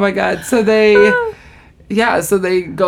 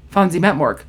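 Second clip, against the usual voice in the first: mock deadpan, little movement; dead serious; 2 semitones lower than usual. Offended doctor correcting Rachel, dead serious. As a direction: state it with grave seriousness. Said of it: "he's all dead serious".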